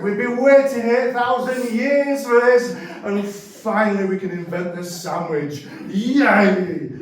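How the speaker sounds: hammed-up inventors cheering; mock celebration. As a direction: celebrate a long wait finally over.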